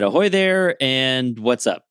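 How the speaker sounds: a mild in-character ahoy; acted greeting. Plurks hails the bulldog, lightly acted greeting. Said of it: "I said".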